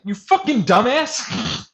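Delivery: high, slow mock yell; mock insult. Player mocks the kicked-out prime minister, slow high mock yell. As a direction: drag out the insult, half-laughing scorn.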